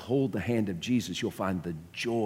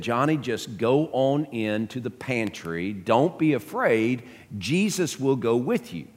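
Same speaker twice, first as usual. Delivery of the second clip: slow, louder, higher and deliberate, a mother's fed-up order; exasperated mother; 5 semitones higher, 4 dB louder than usual. Retold or imitated. Preacher voicing a fed-up mother to her son, slow and exasperated. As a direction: spell it out slowly, her patience gone. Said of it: "the mama said in frustration".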